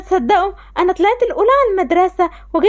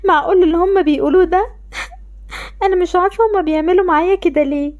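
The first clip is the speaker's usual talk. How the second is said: tearful disbelief; crying. Acted. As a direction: whimper it through tears. Girl overhears being left out.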